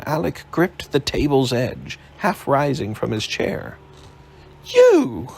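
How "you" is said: sudden loud high cry of recognition; shocked outburst. Acted. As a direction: shoot up in alarm at the sight of him. Alec startled, half rising.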